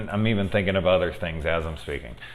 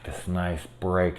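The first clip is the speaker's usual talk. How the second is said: whispered; 5 dB quieter, slower than usual. Real, not acted. Dreamy describing break.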